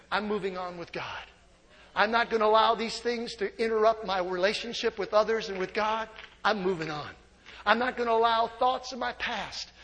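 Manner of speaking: soft, determined vow; quiet resolve. Pretend. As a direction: say it like a private promise to God. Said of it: "You and I need to make a choice today".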